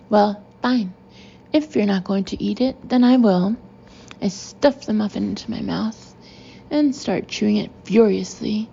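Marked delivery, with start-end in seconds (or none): 0.1-3.6 angry defiance. Acted. Boss about to eat the muffin herself, defiant. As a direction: throw down a defiant challenge.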